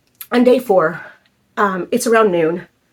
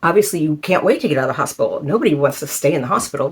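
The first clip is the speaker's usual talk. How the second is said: mock common wisdom; 4 semitones lower, faster than usual. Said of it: "everybody hears".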